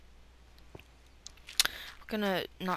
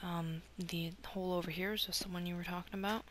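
whisper; 6 dB quieter, faster than usual. Real, not acted. Whispered question.

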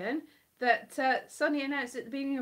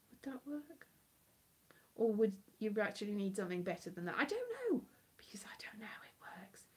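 whispering; 5 dB quieter than usual. Real, not acted. Whispered questions.

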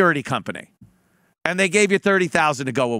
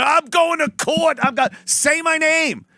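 mock defiant rant; 4 semitones higher than usual. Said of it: "I'm not an idiot like you that's gonna".

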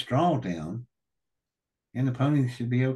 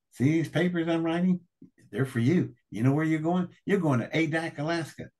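retold cussing out; 7 semitones higher than usual. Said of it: "he is just cussing me out".

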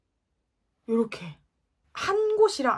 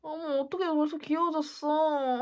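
delighted; 6 semitones higher than usual. Real, not acted. Delighted reaction to own look.

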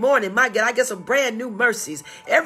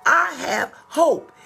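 slow quote; 5 semitones higher, slower than usual. Acted. Quoting Jeremiah again.

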